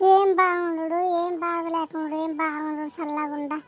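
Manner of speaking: low-pitched, loud-starting rebuke; indignant retort. Acted. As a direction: throw the greeting back in annoyance. Daughter scolds her sister-in-law. (కోపంగా ఎదురు సమాధానం)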